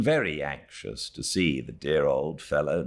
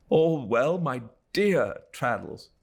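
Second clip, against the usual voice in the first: glad cry; 7 semitones higher than usual. Acted. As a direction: greet an old friend warmly. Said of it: "we cried with pleasure".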